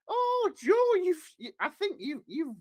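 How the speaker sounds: high falsetto, mock reproach; Gillian McKeith. TV nutritionist telling Joe off about dog food, high falsetto. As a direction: scold in a squeaky falsetto. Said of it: "it's me, Gillian McKeith".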